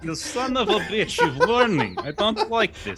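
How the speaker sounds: laughing. Real, not acted. Player laughs at GM's trick.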